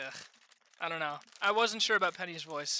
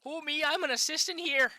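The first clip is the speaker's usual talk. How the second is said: put-on higher-pitched stab at a Canadian accent; attempted Canadian accent; 4 semitones higher than usual. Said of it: "Canadian accent?".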